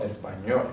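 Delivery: "español" stressed on its final syllable, ñol; stress on last syllable. Shown as a demonstration. Teacher shows the rule for final consonants, "español" stressed on ñol. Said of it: "add the stress on the last syllable".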